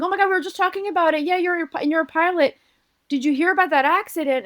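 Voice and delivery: imitating a chatty coworker in a high voice; high, gushing retold chatter; excited coworker. Chatty coworker keeps going.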